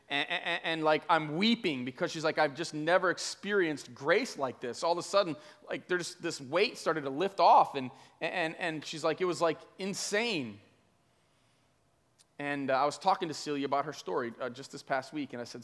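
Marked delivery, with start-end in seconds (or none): 0.1-10.6 higher, emphatic retelling of being overwhelmed. Retold or imitated. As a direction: build intensity as you relive her amazement. Retold testimony of overwhelming grace.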